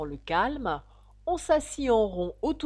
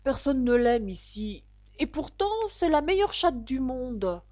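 high-pitched, plaintive protest; sad; 6 semitones higher, 5 dB louder than usual. A narrator's reading. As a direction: protest mournfully to yourself. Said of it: "se dit-elle tristement". (plainte triste, voix aiguë)

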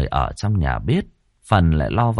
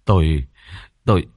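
softened voice; 4 dB louder than usual. A narrator's reading. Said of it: "Ông dịu giọng".

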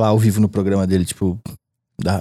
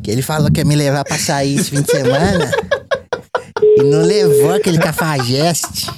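gossiping receptionist; 4 semitones higher than usual. Pretend. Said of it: "as duas atendentes conversando uma com a outra".

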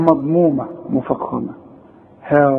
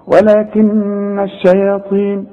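ولكن الشياطين with ghunna on the ن; slow recitation; slower than usual. Shown as a demonstration. Teacher recites ولكن الشياطين with ghunna. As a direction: recite ولكن الشياطين slowly, nasal ن held. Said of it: "لازم تغن كل نون".

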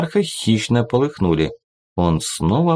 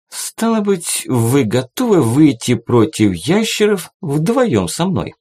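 stern monarch voice; 6 semitones higher than usual. A narrator's reading. Monarch challenges hunter.

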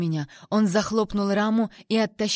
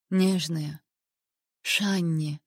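savouring; 3 semitones lower, much slower than usual. A narrator's reading. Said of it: "словно смакуя, произнёс он моё имя".

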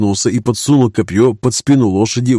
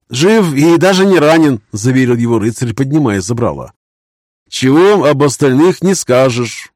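put-on a young knight mourning defeat; grieving young knight; 3 semitones higher, 3 dB louder than usual. Baron voiced high.

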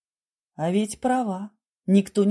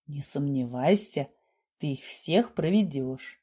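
lower, gentle reassurance; affectionate; 5 semitones lower, 4 dB quieter than usual. A narrator's reading. Doctor assuring the girl she will fool everyone, affectionately. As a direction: reassure her softly and fondly. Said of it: "ласково сказал".

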